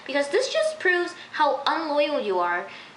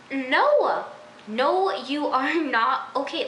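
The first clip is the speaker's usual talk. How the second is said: emphatic no; 2 semitones higher, 3 dB louder, much slower than usual. Real, not acted. Venting about a TV character.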